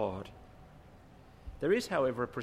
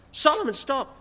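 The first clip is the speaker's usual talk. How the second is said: louder, high-pitched dad's command, acted out; father scolding loudly; 11 semitones higher, 9 dB louder than usual. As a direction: raise it as an exasperated dad would.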